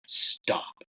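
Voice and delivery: unvoiced hushed command; whispered stop. Whispering to Christian to stop before the shot, hushed. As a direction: whisper it so the elk don't hear.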